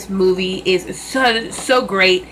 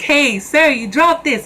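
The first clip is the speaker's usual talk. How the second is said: put-on higher, cocky kid voice tossing it back; cheeky Spider-Man quote; 8 semitones higher, slower than usual. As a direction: play it like a smug teen hero.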